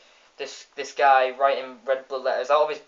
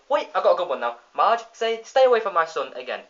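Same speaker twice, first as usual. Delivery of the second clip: eager, high request; villain asking for his cue again; gleeful Bob; 4 semitones higher, 4 dB louder than usual. Retold or imitated. Bob coming back for another threat, eager. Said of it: "he says".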